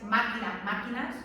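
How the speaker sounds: "máquina, máquinas", both stressed on MÁ; same stressed syllable. Shown as a demonstration. Teacher showing stress kept in plural, MÁ stressed in "máquina, máquinas". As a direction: keep the force on the first syllable of "máquina, máquinas". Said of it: "la mantiene en plural".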